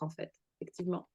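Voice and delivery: fading to a low murmur; trailing off. Real, not acted. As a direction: let the words die away softly. Closing a thought, voice dropping away.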